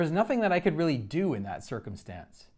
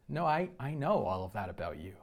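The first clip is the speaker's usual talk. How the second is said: low, soft reassurance; hushed divine reassurance; soft reassuring voice; 3 semitones lower, 4 dB quieter than usual. Retold or imitated. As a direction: answer gently, like a loving father. God's reassuring reply voiced.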